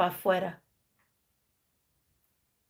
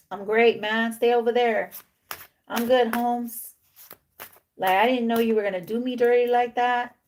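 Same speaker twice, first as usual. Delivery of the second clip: lightly voiced King of Swords, a bit raised; slangy brush-off; 2 semitones higher than usual. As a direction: wave off a homeboy with a touch of hurt. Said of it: "you may talk like that".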